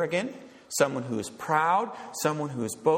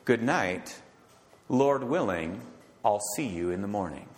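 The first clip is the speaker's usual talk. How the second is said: gentle goodnight; 5 semitones lower than usual. Shown as a demonstration. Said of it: "instead I ought to say".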